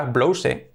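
"blouse" read as BLO-u-seh; Spanish-style "blouse", vowels as written; spelling pronunciation. Shown as a demonstration. Teacher imitating a first sight of the word, spelled-out reading. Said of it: "Si la ves de primera".

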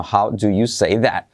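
"How" with a light breathy H, then a slow careful "do you say that"; soft throaty H at the start of "How". Shown as a demonstration. Teacher shows students the soft H, slow and careful. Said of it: "con la letra semiclave H".

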